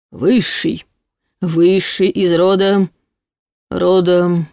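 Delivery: drawn-out, faltering wail; howling demon. A narrator's reading. Demon gropes for his lineage, howling and faltering. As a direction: stretch it out as memory fails. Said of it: "снова взвыл Кенна".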